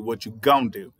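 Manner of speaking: "gonna" clipped toward "gon"; lazier gonna. Shown as a demonstration. Showing slang getting even lazier. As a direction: let "gonna" collapse to "gon". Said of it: "it gets even more lazy".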